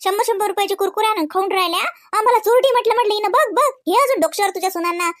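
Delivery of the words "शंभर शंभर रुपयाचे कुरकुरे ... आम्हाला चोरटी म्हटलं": mocking quote. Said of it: "मला म्हणते".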